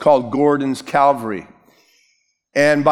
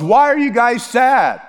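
much higher, animated questioning; playful acted question; 10 semitones higher, 3 dB louder than usual. Preacher voices Jesus asking the bummed-out walkers, high and playful. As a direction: ask it high, feigning innocence.

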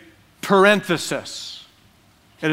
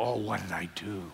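laughing mock regret; 8 semitones lower, 14 dB quieter than usual. Regret right after sending.

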